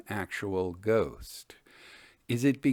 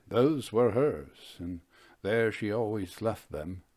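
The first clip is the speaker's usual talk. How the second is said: grieving father; 2 semitones lower than usual. Acted. Grieving father voiced in story.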